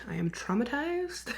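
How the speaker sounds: a hushed, dramatic whisper; mock-traumatized whisper. Real, not acted. Vlogger telling her ant story, in a mock-dramatic whisper. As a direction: whisper it like a confession.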